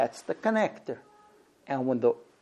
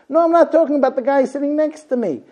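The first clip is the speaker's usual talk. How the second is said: higher, louder, exasperated correction; mock annoyed husband; 10 semitones higher, 9 dB louder, faster than usual. A husband correcting his wife, annoyed. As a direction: cut her off, annoyed. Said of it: "husband's reply".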